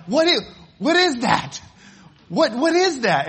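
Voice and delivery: high, loud startled questions; scared kids. Retold or imitated. Kids in the dark woods hear the bear noise, high and frightened. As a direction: imitate frightened children asking what the noise was. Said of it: "the kids are just like".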